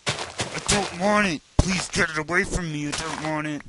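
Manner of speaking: high, loud hammed-up protest; mock meltdown. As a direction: yell it like an overblown tantrum. Mock meltdown over game lag.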